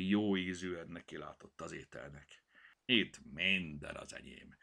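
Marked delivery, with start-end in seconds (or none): 2.8-4.6 growled. Acted. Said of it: "morogta a tál felett".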